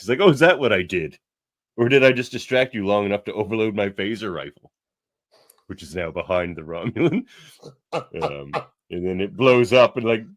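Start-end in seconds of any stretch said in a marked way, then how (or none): 0.2-4.7 louder sly reveal; smug gloating. Retold or imitated. Shaxx revealing his overloaded rifle, loud smug gloat. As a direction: gloat like you planned it all.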